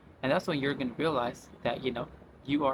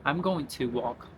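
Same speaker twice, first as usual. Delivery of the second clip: full form, slowly; slower than usual. Shown as a demonstration. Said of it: "if someone wants to say that".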